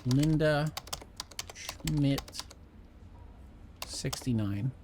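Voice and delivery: very slow, spaced out with long pauses; slow dictation. Real, not acted. Player entering P Richards Linda Schmidt, slow, piecemeal dictation. Repeating username slowly to dictate it.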